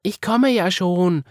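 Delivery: put-on high, loud child voice, slow; Marie's reply. A narrator's reading. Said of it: "sagte Marie".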